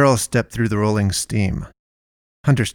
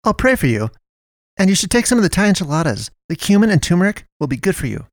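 much higher, fast insistent advice; pushy Melinda; 9 semitones higher, faster than usual. Acted. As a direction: push the food on her, kindly bossy. Melinda voiced high.

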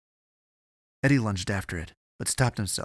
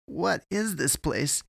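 high, slow, bewildered demand; demanding of no one; 8 semitones higher, slower than usual. A narrator's reading. Eddie questions the strange place to no one, bewildered demand. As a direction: draw the question out, asked of the air. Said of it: "Eddie demanded of no one".

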